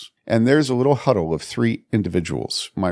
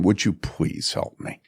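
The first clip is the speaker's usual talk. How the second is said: soft, breathless whispered begging; whispered plea; 3 semitones lower, 5 dB quieter than usual. Retold or imitated. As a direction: let it fall away to a whisper. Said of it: "And I was just crying".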